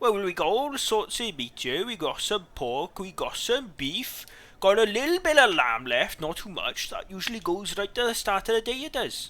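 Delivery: put-on Welsh-accented voice. A food seller character answers a customer asking about his meats, in a Welsh accent. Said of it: "This guy was meant to be Welsh".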